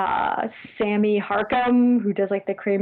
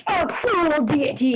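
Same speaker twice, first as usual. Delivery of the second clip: slow, dramatic trailer narrator; movie trailer voice; 5 semitones higher, slower than usual. Shown as a demonstration. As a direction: announce it like an epic movie trailer. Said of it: "you should really be like".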